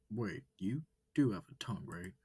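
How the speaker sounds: bright curious alien asking questions; eager alien wolf. Acted. Wolf asks.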